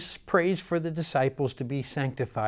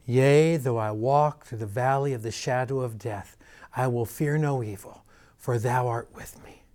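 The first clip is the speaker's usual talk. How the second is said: quivering prayer; 2 semitones lower than usual. Retold or imitated. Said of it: "one quivering voice".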